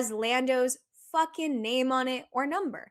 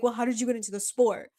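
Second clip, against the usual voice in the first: quick imitation of a doubting chad, in own pitch; lightly voiced dismissive chad, fast; mocking chad; faster than usual. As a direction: challenge it like a gatekeeping chad. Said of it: "one of those chads that love to be like".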